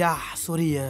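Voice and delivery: lightly imitated Indian-accented apology. Flight attendant apologising to passenger, mock Indian accent. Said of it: "elle a pris un accent indien".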